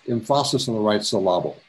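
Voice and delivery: "emphasis" and "syllable" stressed jokily on the middle syllable; joking misplaced stress. Shown as a demonstration. Teacher jokes to photo class, "emphasis" and "syllable" mis-stressed on the middle. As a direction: put playful wrong stress on "emphasis" and "syllable", second syllable leaned on. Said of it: "as the English teacher would say".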